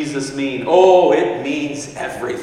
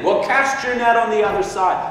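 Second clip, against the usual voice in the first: high-pitched call from afar; stranger calling out; 7 semitones higher than usual. Retold or imitated. Man on the shore calling to fishermen, high sing-out. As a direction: call advice across the water.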